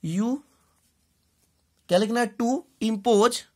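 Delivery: usual speaking voice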